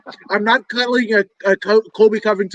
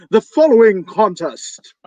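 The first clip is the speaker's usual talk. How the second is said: ring announcer voice; 4 dB louder, slower than usual. Retold or imitated. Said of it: "missing from that introduction".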